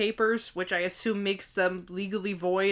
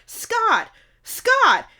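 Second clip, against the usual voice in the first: high, drawn-out calling of a name; mock yell; 13 semitones higher, 6 dB louder than usual. Mom yells up at departing ex, mock high call. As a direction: imitate calling up to someone far off. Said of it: "And she yells".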